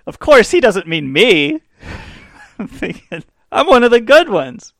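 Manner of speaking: mock naive reassurance. Reader reassuring himself about Malcolm X, mock smug. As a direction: talk yourself into it, a bit smug. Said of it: "I'm like".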